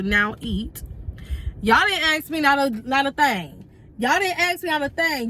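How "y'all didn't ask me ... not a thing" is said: raised, exasperated complaint; indignant rant. Retold or imitated. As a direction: rant like you were wronged. Ranting about not being offered food.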